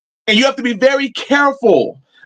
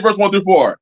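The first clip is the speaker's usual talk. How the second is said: normal talking voice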